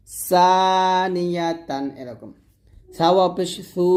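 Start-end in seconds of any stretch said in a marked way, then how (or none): 0.1-1.8 সানিয়াতান with hissed S onset, stretched; sharp sin. Shown as a demonstration. Teacher explaining tongue placement, সানিয়াতান with sharp S. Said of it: "এখন সা বলতে হবে".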